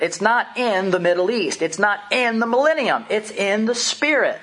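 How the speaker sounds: heat up on each "not"; getting carried away while preaching the kingdom; worked up. Real, not acted. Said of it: "I'm getting a little worked up".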